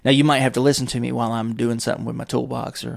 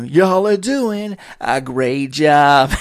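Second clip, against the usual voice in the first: slow laughing mock praise; 3 semitones higher, 8 dB louder, much slower than usual. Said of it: "Mister Fuji is the worst".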